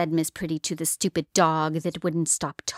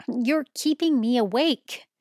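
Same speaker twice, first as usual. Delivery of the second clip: grumpy dragon; 6 semitones higher than usual. Acted. Dragon complains, woken.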